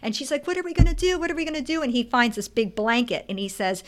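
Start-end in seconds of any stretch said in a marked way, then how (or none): 0.5-1.8 high-pitched, fretful imitation; mock panic. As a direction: act out flustered worry. Retold panic as Piggy approaches.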